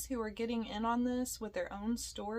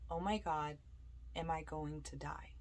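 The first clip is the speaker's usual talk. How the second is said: disembodied voice; 6 semitones lower, 6 dB quieter than usual. Retold or imitated. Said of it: "a point-blank voice ... and it said".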